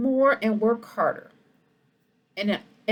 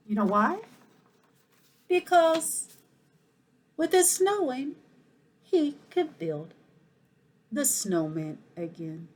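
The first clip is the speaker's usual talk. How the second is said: lively, expressive picture-book reading; animated storytime voice for the whole school; reading to children. Acted. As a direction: read it like storytime for little kids. Principal reads picture book aloud.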